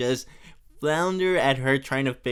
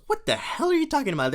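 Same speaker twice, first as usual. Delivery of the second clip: Bart voice; 11 semitones higher, faster than usual. Retold or imitated. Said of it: "And Bart goes".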